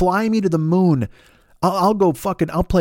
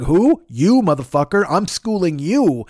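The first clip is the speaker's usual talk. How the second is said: no-nonsense owl; 3 dB louder, slower than usual. Acted. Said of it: "he's not fucking around".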